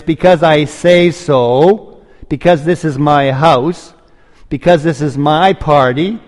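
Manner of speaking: mock a father pulling rank; hammed-up stern father, slow and loud; bossy father. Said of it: "He doesn't talk like that".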